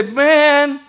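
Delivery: low, teasing unsaved relative; mocking relatives. Unsaved family teasing the believer, low and mocking. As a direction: needle them with a chuckle. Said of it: "they look at you and say".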